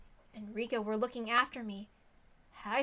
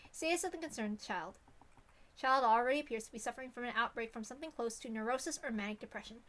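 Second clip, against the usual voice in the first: softer, measured document read; report reading; 4 dB quieter, faster than usual. Acted. Streamer reading Sadako's abuse report aloud, dry. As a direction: read it like an official file.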